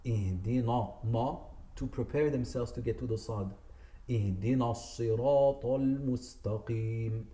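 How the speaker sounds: "اهدنا" made heavy in advance for the sad; all letters heavy, the mistake; wrong heavy. Shown as a demonstration. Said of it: "They would say".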